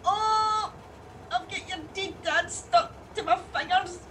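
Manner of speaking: laughing, half-crying disgust. Acted. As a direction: laugh and squirm at once. Ashes stuck, laugh-cry.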